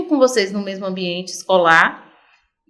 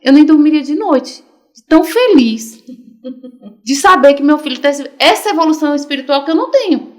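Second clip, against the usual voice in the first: proud excitement; 3 semitones higher, 5 dB louder than usual. Retold or imitated. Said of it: "eu falei".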